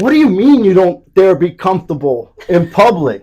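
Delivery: high, loud incredulous rant; outraged telling-off. Retold or imitated. Speaker scolding a suited man about Crocs, outraged shout. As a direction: shout in disbelief, hitting each phrase. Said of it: "I told him exactly like that".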